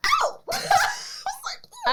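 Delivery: crushed little oh; laughing hurt; deflated squeak into laugh. Real, not acted. Crushed by not being remembered.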